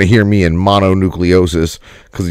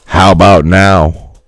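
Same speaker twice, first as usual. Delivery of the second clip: slow, lower mock slow-motion voice; slowed down deep; 4 semitones lower, slower than usual. Shown as a demonstration. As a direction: drag it out low and slow. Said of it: "now I'm just kinda fucking with you guys".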